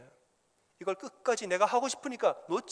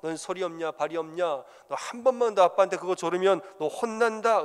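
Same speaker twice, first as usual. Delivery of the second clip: angry father scolding; 4 dB louder than usual. Retold or imitated. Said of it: "화를 냅니다".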